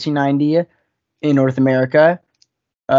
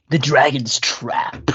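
whispered; slower than usual. Real, not acted. Reverent aside about a game.

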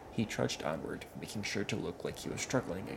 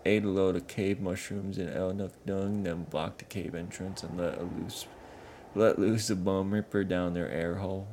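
louder, rough troll voice telling tales; a dim troll explaining his chief; northern troll grumbling; 2 semitones higher, 6 dB louder than usual. Acted. Sligu recounts smoking out trolls.

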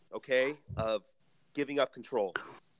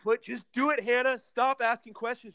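exasperated; 9 semitones higher than usual. Acted. Host insists, exasperated.

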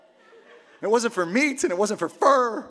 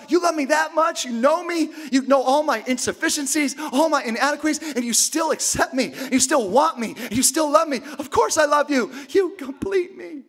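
mock adoring; 5 semitones higher than usual. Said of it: "You're like".

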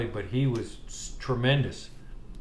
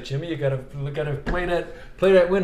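rising, louder coaching urge; coach Lee; 4 semitones higher, 4 dB louder than usual. Retold or imitated. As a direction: push him harder with each phrase. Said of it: "Mister Lee's like".

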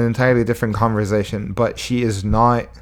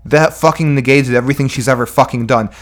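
mock critic; 4 semitones higher than usual. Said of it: "It's like".

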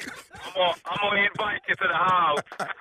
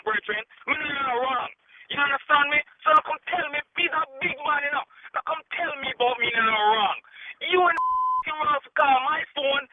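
angry Jamaican patois; 3 semitones higher than usual. Real, not acted. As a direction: fire back in thick Jamaican patois. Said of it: "you went on a Jamaican run".

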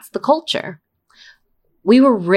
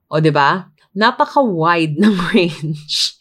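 sarcastic mock praise breaking into a laugh. Real, not acted. Teasing Filipinos' narrow range of emotions, sarcastic. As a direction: say it drily mocking, then laugh. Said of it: "I'm being sarcastic".

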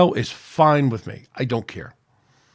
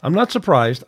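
mad; 5 semitones higher, 4 dB louder than usual. Real, not acted. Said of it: "I'm just mad".

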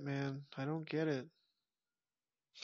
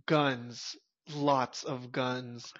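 low, slow movie line; 4 semitones lower, much slower than usual. Retold or imitated. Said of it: "had the balls to say".

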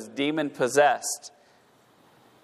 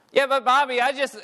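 put-on child's voice; 11 semitones higher than usual. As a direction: play the kid protesting to mom. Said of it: "their response is".

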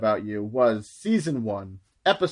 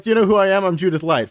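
mock diva demand; 6 semitones higher, much faster than usual. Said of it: "For her to be like".

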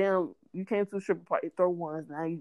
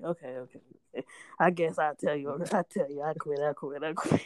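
mock surrender; 5 semitones lower than usual. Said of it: "I'm like".

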